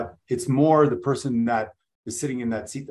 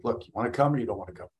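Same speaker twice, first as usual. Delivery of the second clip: quick, matter-of-fact offer; much faster than usual. Retold or imitated. Speaker retelling his offer to attendees, matter-of-fact. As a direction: put it plainly and fast, no sales push. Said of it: "like a matter of fact thing".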